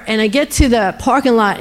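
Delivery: ordinary delivery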